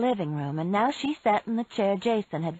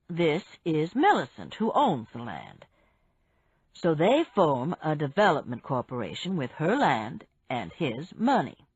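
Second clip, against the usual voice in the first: lightly voiced man; 3 semitones lower than usual. Barry voiced by narrator.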